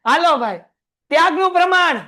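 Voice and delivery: loud drill call. Real, not acted. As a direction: draw it out to make them answer. Teacher calling class again.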